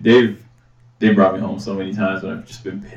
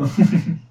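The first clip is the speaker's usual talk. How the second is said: high-pitched hiccup laugh; 8 semitones higher than usual. Shown as a demonstration. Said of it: "High pitch".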